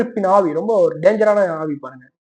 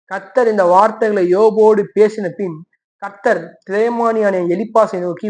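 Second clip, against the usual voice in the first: slow, measured Bible reading; slow scripture reading; slower than usual. Acted. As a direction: read God's words deliberately, slow. (மெதுவான வேத வாசிப்பு)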